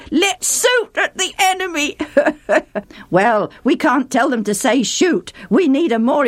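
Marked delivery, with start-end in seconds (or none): 0.1-2.0 higher, amused, "suit" with s; mock Ephraimite accent. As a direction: imitate the funny s-for-sh. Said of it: "always did sound so funny".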